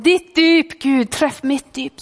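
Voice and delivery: slow, lifted cry of prayer. Retold or imitated. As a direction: plead slowly as the praying pastor. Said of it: "han ropte og han bad".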